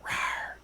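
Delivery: mock cat growl. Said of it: "I can't believe I just went "rawr".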